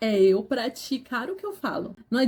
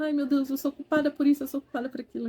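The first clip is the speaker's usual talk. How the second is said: guilty fretting; 3 semitones higher, faster than usual. Retold or imitated. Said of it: "eu fico".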